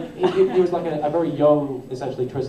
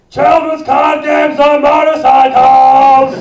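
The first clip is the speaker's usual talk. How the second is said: huge, drawn-out shouted villain yell, much higher; Jack Atlas line; 13 semitones higher, 17 dB louder, much slower than usual. Retold or imitated. Voice actor quoting the rival's big line, slow shouted bellow. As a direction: bellow it slowly like an anime rival. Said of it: "he has a line and he goes".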